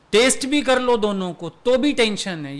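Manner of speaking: usual speaking voice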